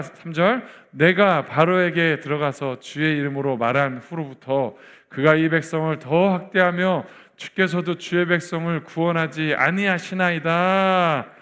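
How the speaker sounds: measured congregational recitation with drawn-out phrase endings; scripture read aloud. Acted. Preacher leading the church in Moses' prayer, measured recitation. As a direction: lead the congregation through the verse, steady and deliberate.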